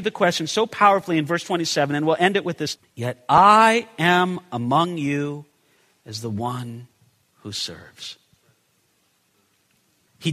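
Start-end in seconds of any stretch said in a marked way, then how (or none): 3.0-8.2 hushed closing line. Real, not acted. Closing scripture quote, fading.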